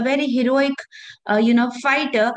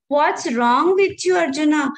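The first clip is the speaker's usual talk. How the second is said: displeased rebuke; 3 semitones higher than usual. Retold or imitated. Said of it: "Lord Krishna is not happy with Arjuna".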